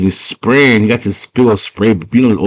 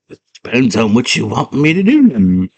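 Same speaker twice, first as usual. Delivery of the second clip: higher, grudging little creature voice; Hoggle; 4 semitones higher than usual. Acted. Goblin man answering the girl, character voice. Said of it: "And he's like".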